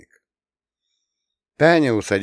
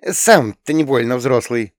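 high, louder huffy retort; 4 semitones higher, 6 dB louder than usual. A narrator's reading. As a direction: snap back like an offended girl. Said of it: "фыркнула она". (Таня обиженно огрызается на брата — высоко и громко)

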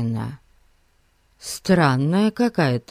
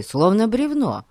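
ordinary delivery, nothing marked

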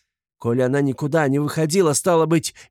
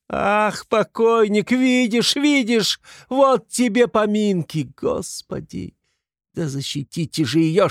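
very high, anguished lament; wailing plea; 12 semitones higher, 4 dB louder than usual. A narrator's reading. Katerina begging God and bystanders to defend Sonya, wailing. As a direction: wail and beg, climbing to a desperate cry. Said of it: "Плач бедной, чахоточной, сиротливой Катерины".

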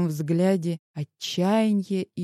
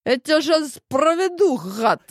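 angry snarl; 9 semitones higher, 4 dB louder than usual. Acted. Wife fights husband arresting her.

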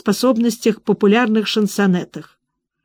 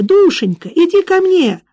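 wailing plea rising much higher; heartrending wail; 9 semitones higher, 3 dB louder than usual. Acted. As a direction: cry out in desperate anguish. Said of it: "Надрывные вопли".

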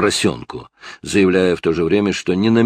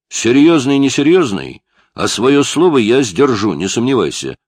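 louder, sharp angry retort; snapped; 7 semitones higher, 6 dB louder than usual. A narrator's reading. Detective rebuffs the mocking suspect, snapping loudly. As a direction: bite back hard at the kid. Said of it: "огрызнулся Стоун".

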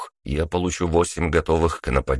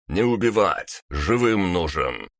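commanding shout; 3 semitones higher than usual. Acted. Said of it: "скомандовал голос".

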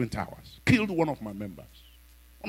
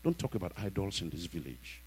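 much softer, hushed cautioning voice; fearful warning; 6 semitones lower, 15 dB quieter than usual. Retold or imitated. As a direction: warn him quietly out of fear. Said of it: "the preacher called him and said".

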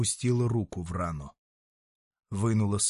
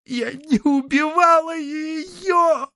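crying out in denial, much higher, slow; 6 dB louder, much slower than usual. Acted. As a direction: sob the denial, breaking. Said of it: "заплакала". (плача, с криком отчаяния)

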